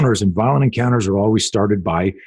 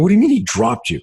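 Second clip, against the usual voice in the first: much higher-pitched disbelieving question; retold incredulity; 11 semitones higher than usual. Coach hearing his student got dropped, retold incredulity. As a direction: re-enact a baffled reaction, pitch jumping right up.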